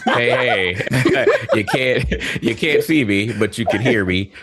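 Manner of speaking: talking through a blocked nose after surgery; stuffy, congested nose voice; stopped-up nose. Real, not acted. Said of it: "if I sound crazy, it's because I do sound crazy".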